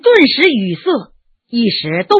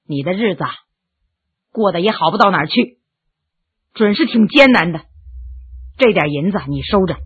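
sighing tenderness; 5 semitones lower than usual. Acted. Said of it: "叹了口气说".

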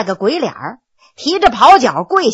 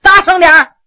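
louder command; 5 semitones higher, 6 dB louder than usual. Acted. Judge demanding he speak up.

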